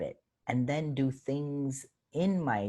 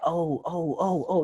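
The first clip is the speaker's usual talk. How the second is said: imitated crowd oohs, higher pitch; audience reaction; 8 semitones higher, 6 dB louder, slower than usual. Comic mimicking the crowd's reaction to a joke, high imitated oohs. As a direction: mimic a room catching on, high and louder.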